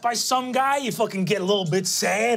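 fast, berating character rant; hectoring older guy, speeding up; scolding older man. Acted. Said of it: "you see that he says".

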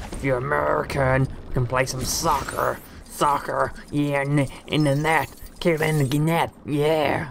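put-on American accent. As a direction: attempt a playful American sports voice. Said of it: "how to say it in an American voice".

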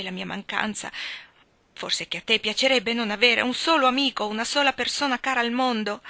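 a lightly voiced Catherine, hurt and accusing; bitter young woman. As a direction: spill out years of resentment at her friend. Catherine's bitter outburst to Anna.

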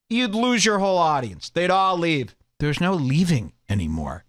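ordinary talk

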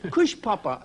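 imitating the Italian bear owner, lightly; Italian accent. The speaker imitating the Italian bear trainer, light Italian accent. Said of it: "he was an Italian guy".

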